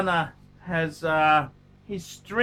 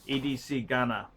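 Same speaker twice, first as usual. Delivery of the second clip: lower, softer muttered E D C Ghana; quiet aside; 7 semitones lower, 8 dB quieter than usual. Acted. Repeating the viewer's name to himself, quiet low aside.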